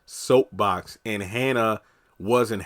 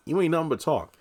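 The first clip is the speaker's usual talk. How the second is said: raised pitch, easing-off scoff; toned-down taunt; 5 semitones higher than usual. Retold or imitated. Recapper dismissing Victoria's threat, toned-down taunt. Same retort repeated more softly.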